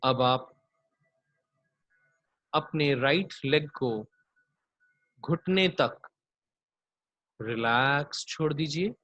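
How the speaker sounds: unhurried body-scan meditation voice; guided yoga nidra. Acted. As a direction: draw out each "relax", lead them gently into rest.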